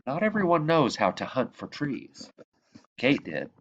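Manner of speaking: lively read-aloud, bright lifts at each new line; storytelling voice. Acted. Reading The Tree Lady aloud to children, storytelling voice. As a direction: tell it like a bedtime picture book. Reads picture book to children.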